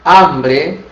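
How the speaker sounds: saying hambre with a silent h; Spanish word. Shown as a demonstration. Teacher models the Spanish word for students: hambre with silent h. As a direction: hambre said as ambre, no h. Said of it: "que quer dizer fome".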